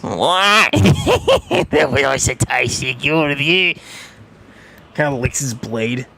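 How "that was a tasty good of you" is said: orc voice. Acted. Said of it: "he just".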